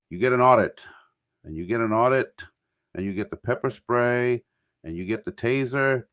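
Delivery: loud, high game-show giveaway; Oprah giveaway shout. Retold or imitated. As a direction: shout each prize like Oprah.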